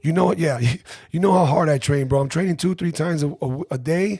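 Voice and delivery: loud whiny protest. Retold or imitated. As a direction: complain loudly about training. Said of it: "whiny little voice".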